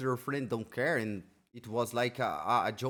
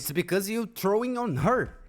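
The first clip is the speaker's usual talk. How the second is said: angry shouting; 7 semitones higher, 5 dB louder than usual. Real, not acted. Angry rant at the streamer.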